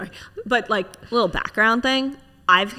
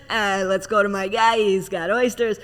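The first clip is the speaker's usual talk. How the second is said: playful imitation of an older food friend; lightly voiced older buddy offering oysters; Bert impression. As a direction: do a casual impression of a dad-like pal. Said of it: "that's my Bert impression".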